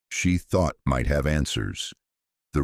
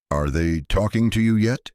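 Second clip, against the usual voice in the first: urgent priest; 5 semitones higher, 4 dB louder than usual. Acted.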